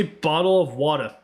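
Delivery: careful British "bottle of water" with the t's sounded; British attempt. Shown as a demonstration. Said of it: "It came out totally wrong".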